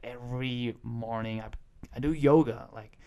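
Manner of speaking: imitating an American accent, stretching "calf"; American accent impression. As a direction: lightly mimic your friend's American accent. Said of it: "who has the better accent".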